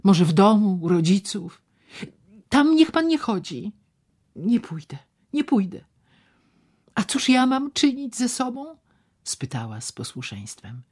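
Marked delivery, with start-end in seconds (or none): 0.0-8.7 much higher and louder, anxious; worried young woman voiced high. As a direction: plead with him not to go. Ewa's worried lines.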